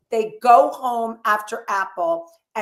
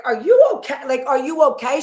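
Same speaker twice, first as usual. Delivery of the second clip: higher, louder worried check; worried concern; 4 semitones higher, 5 dB louder, faster than usual. Retold or imitated. Dolores worried as Paulie sweats, anxious question. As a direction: ask anxiously if he's alright. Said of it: "she's like".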